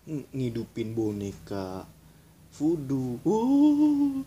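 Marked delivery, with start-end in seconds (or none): 3.3-4.2 startled yelp. Real, not acted. Reacts to voodoo doll.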